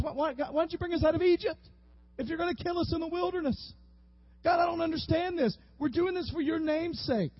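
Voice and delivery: a hammed-up whine of why, why, God; whining Israelites. Israelites whining at God over Egypt, in a mock complaint. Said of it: "Sounds like the Israelites".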